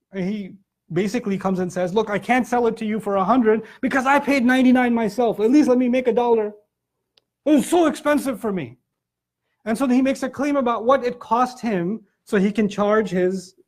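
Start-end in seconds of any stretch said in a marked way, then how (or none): 1.9-8.8 pleading merchant. Retold or imitated. Merchant quoted pleading over his price.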